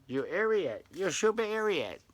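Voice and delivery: high, loud mock broken-English accent; broken English impersonation. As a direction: yell it in exaggerated broken English. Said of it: "that's my, uh, broken English impersonation".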